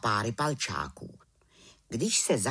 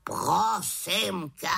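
mock exasperation; 6 semitones higher, much slower than usual. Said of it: "vykřikl Havran".

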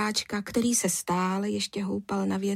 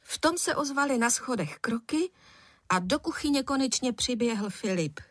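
usual speaking voice

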